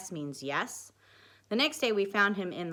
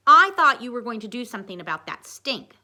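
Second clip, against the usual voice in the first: loud, higher angry complaint; furious hiss; 5 semitones higher, 13 dB louder than usual. A narrator's reading. Haley furious about the smell, loud and accusing. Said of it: "she hissed".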